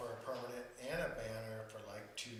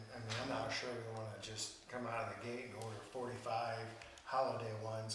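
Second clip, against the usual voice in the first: muffled behind a hand; hand over mouth. Real, not acted. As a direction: speak through your fingers, muffled. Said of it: "when you put your hand over your mouth, I can't hear you".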